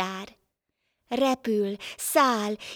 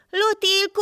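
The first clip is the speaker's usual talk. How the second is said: hívó kiáltás, magasan és hangosan; calling out; 11 semitones higher than usual. A narrator's reading. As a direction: shout her name up into the sky. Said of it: "Teventej meg kiabált utána".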